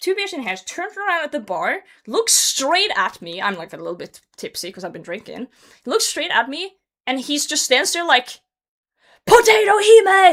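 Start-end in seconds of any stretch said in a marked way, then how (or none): 9.3-10.3 very high, loud shouted yell. A guy at a bar yells her gamer tag at her; imitating a guy yelling. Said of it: "he's like yelling my fucking gamer tag".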